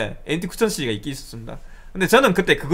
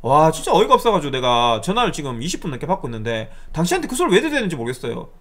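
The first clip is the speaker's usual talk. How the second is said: retold exasperated protest; re-enacted annoyed comeback; somewhat angry. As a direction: vent at the caller with mild indignation. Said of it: "화를 내면서 얘기를 했어요".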